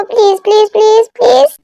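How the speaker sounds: sing-song string of pleases; pleading. Acted. Husband begging his wife to forgive him, pleading. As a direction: beg repeatedly, climbing in pitch.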